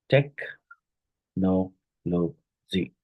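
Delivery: "tech, no, lo, z" with a pause after each syllable. Shown as a demonstration. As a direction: count out four isolated syllables of "technology". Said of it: "four syllables are there".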